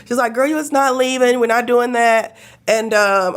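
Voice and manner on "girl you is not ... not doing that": a hint of a sassy doctor; mild mock doctor scolding; imitating the firm doctor. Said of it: "That's how she talked to me".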